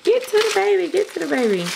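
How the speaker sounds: high mock-impatient viewer voice, falling off. Imitating viewers urging her on, mock impatient. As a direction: hurry her up like eager viewers. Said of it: "I know it's like".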